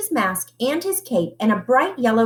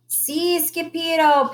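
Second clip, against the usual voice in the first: panting; 7 semitones higher than usual. Acted. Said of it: "panted Paquito Tito".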